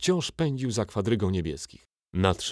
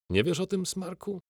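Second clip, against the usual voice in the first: higher, sneering taunt that drops off on the insult; mocking giant; 12 semitones higher than usual. A narrator's reading. Giant mocks the boy.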